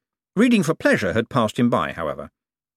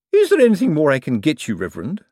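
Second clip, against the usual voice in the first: anxious; 5 semitones higher, 5 dB louder, faster than usual. A narrator's reading. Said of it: "said the woman anxiously".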